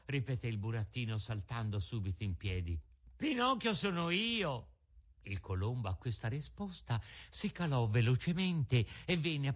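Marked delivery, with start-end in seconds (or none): 3.1-4.7 put-on high, eager wooden-boy voice; eager puppet. A narrator's reading. Pinocchio telling the pigeon who he is, high and eager. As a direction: proudly claim your name.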